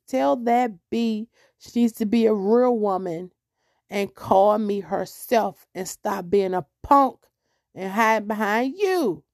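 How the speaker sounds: slow, measured retold rebuke; firm dictated message. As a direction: dictate a rebuke word by word for a messenger. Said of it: "You say it just like this".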